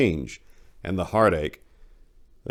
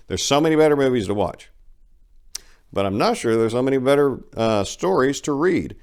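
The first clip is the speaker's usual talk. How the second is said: excited; 7 semitones higher, 5 dB louder than usual. Real, not acted. Excited plug for his stories.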